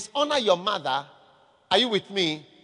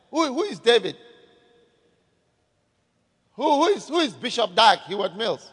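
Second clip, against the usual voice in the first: mocking scoff. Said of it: "Do you see how people talk?".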